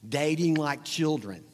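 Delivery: spitting on a consonant; sputtering spray of spit; spit take. Real, not acted. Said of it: "Oh, I just spit everywhere".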